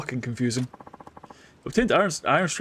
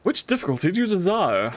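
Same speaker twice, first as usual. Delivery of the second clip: voiced NPC accent; 4 semitones higher than usual. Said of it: "This accent has changed".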